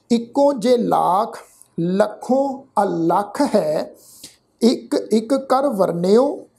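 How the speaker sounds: slow, measured verse reading; scripture recitation. Shown as a demonstration. Teacher reciting Gurbani for the congregation, slow and measured. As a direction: recite word by word with held vowels.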